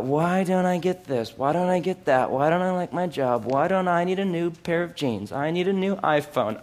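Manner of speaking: slightly hushed mock grumble; mock murmuring. Believer murmuring to God about wants, mock grumbling. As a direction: run off petty complaints lightly under the voice. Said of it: "murmur under my breath".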